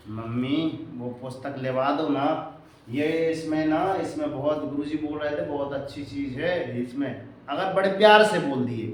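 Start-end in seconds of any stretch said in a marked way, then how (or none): 0.1-7.3 sweet request. Retold or imitated. Child lovingly asks mother to buy a book, soft and sweet. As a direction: ask mom nicely, coaxing.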